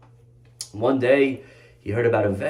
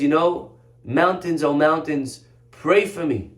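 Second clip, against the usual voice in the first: higher, pleading call to the mountains; retold crying out; 4 semitones higher, 4 dB louder, slower than usual. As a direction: cry out a plea, raised but not truly sobbing. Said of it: "he starts crying and yelling".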